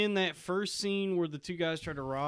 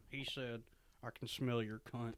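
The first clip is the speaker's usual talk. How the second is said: Jodie Foster impression; 6 semitones lower, 16 dB quieter than usual. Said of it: "That's a good Jodie Foster".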